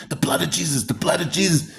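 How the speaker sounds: breathy, high, hushed plea; fervent whispered prayer. Retold or imitated. Man fighting a demon pleads in a whisper. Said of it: "I'm like".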